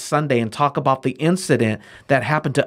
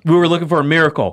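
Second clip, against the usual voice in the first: laughing; 2 semitones higher, 4 dB louder, much faster than usual. Real, not acted. Joking about hoping for miracle.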